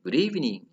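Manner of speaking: "Good evening" high and loud, then falling; intonation drill. Shown as a demonstration. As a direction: peak on "evening" and let it fall. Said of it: "tidak, tidak sama ya intonasinya".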